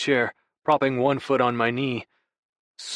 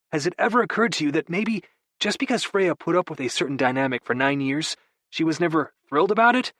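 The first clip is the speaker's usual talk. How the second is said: lightly raised, breezy younger brother; a hint of a sheepish brother; Vigo's voice; 6 semitones higher than usual. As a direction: play it off with easy charm. Vigo lecturing Aiden.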